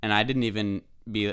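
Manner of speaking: normal talking voice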